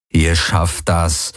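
slow, low inner encouragement; quiet urging thought. Acted. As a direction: think it slowly to yourself. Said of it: "dachte er".

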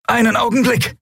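high creature voice, struggling; high lizard voice, busy working. A narrator's reading. Draxyl climbing, struggling.

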